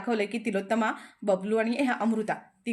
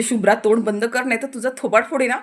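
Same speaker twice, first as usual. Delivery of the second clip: louder, harsh warning to the daughter; angry threat; 6 dB louder than usual. Retold or imitated. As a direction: shut her up with a threat. Mother threatens daughter angrily. (रागाने, मोठ्या आवाजात धमकी)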